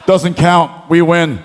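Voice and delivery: lightly voiced indignant wrestler; a hint of mock indignation; Shawn Michaels. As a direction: imitate a cocky wrestler arguing his case. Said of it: "He goes".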